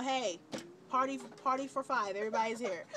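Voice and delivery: mother cheering as family arrives; party cheer. Retold or imitated.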